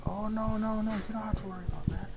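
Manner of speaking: high, quick brushing-off; mock-eager high-pitched denial; hasty reassurance. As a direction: wave the worry away in a high, hurried voice. High guy brushing off her worry.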